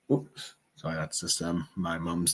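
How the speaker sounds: hushed so as not to wake her; quiet. Real, not acted. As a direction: keep it down, someone's asleep nearby. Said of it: "why I'm being a bit quiet".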